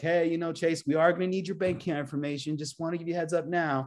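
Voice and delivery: needy pleading with lots of breath. Coaching how not to say it, demonstrating a line to chase in a needy way. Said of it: "That's saying it in a needy way".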